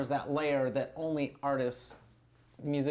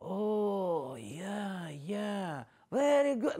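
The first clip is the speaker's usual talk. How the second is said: grudging agreement; 3 semitones higher, much slower than usual. Retold or imitated. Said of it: "they're like".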